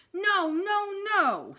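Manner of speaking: loud, high tantrum yell; toddler hollering. A narrator's reading. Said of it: "he hollered".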